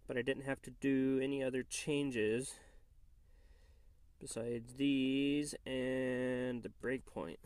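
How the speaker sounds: nasal voice from a cold; blocked-nose nasal tone, stuffy. Real, not acted. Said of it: "excuse my nasally voice".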